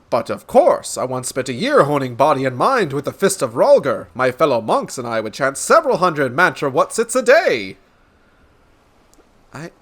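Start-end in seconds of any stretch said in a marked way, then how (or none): 0.1-7.8 lightly voiced pompous boaster; boastful gentleman. Gentleman boasting of a year among monks, pompous. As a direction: brag with exaggerated, bouncing emphasis.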